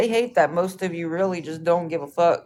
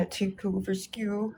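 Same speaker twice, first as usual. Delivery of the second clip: laughing mockery; 2 semitones higher, 7 dB quieter, slower than usual. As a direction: slowly read through a laugh. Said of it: "That's funny".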